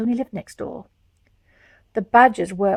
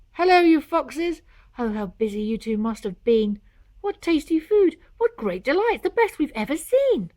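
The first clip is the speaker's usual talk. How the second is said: cheerful greeting; 4 semitones higher, 3 dB louder than usual. Acted. Badgers arrive delighted.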